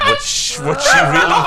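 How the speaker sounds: very high, hammed-up falsetto; squeaky falsetto. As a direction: squeak the question dramatically. Reader hams up Dipper's doubt.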